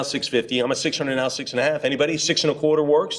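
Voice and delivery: brisk auctioneer chant of numbers; auction bid calling. Acted. Auctioneer calling bids to the room, rhythmic chant. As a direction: keep the bids rolling.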